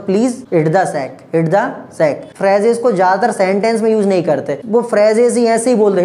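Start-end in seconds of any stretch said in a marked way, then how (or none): 0.1-2.4 each word drawn out, very slow; slow demonstration. Shown as a demonstration. Teacher modelling the idiom for students, very slow. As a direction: spell it out slowly for learners. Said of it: "कह दो".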